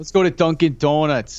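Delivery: put-on Boston accent; exaggerated Boston vowels on Donuts. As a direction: play a Boston local off for donuts. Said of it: "I'll go with Boston on that one".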